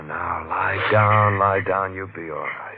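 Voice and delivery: slow, gentle calming; soothing. Acted. Detective calms his frightened wife, slow and soothing. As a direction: ease her back down slowly and tenderly.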